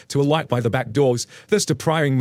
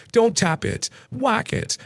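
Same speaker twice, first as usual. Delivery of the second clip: ad catchphrase; 9 semitones higher, slower than usual. Retold or imitated. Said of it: "without saying".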